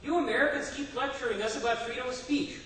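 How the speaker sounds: mock indignant protest, lightly acted; disgruntled complaint. Disgruntled Soviet citizen challenging the American visitor, indignant. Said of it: "a disgruntled Soviet citizen".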